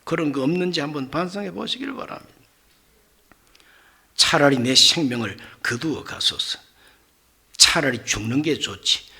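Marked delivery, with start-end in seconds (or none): 4.2-6.6 a touch lower, sullen plea; sulking Jonah. Retold or imitated. Jonah sullenly asking God to take his life. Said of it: "이런 꼴은 못 봅니다". 7.6-9.1 lower, sulky grumble; sullen Jonah. Retold or imitated. Jonah grumbling he'd rather die, sullen. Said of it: "이런 꼴은 못 봅니다".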